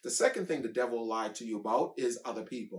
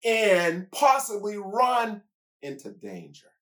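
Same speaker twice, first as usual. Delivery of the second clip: donkey thinking aloud; 5 semitones higher, 4 dB louder than usual. Acted. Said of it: "That is a donkey saying".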